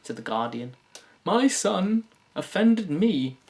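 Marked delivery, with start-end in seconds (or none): 1.2-3.4 high, slow wounded whine; offended mother. Retold or imitated. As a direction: complain like a prim mother writing in. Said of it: "if she wrote a letter".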